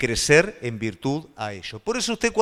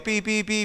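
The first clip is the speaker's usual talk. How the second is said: mock tongues babble; 6 semitones higher, 5 dB quieter than usual. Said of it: "yo empiezo a hablar en lengua".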